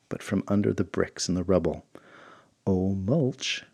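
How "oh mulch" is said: light lilting "Oh, Mulch" with a rise; sing-song. Shown as a demonstration. Calling the dog, "Oh, Mulch" in a sing-song lilt. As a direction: sing "Oh, Mulch" playfully, rising. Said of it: "in a little sing-song voice".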